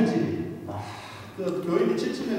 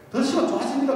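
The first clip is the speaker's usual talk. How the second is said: doctor's reassurance; 8 semitones higher than usual. Retold or imitated. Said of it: "그러더라고요".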